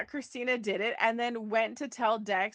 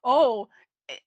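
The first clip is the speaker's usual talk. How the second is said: mock-sarcastic retort, loud opening "Oh"; 2 semitones higher, 4 dB louder than usual. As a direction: imitate someone being sarcastic. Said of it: "when Diane was being sarcastic".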